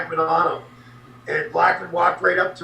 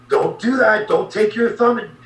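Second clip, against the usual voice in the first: raised, higher warning voice, firm; warning Blackman; 6 semitones higher than usual. Retold or imitated. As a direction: tell him off, pitched up. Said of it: "you know".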